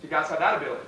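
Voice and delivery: loud, fired-up pep talk; rally the team, full voice; rallying shout. Real, not acted. Rallying call, team answers.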